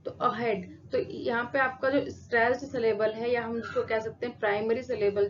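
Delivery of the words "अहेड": अहेड with a weak अ and a fuller हेड; stress on हेड. Shown as a demonstration. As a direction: let हेड carry the word अहेड. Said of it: "हेड की sound ज्यादा आ रही है".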